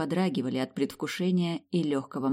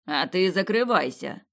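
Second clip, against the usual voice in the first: barked; 3 semitones higher than usual. Acted. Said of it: "гаркнул князь".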